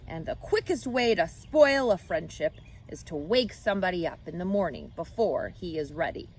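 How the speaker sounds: put-on a touch of a lecturing old ewe; stern old sheep. Oldest sheep lecturing Wilbur, mildly stern. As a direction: set the young pig straight.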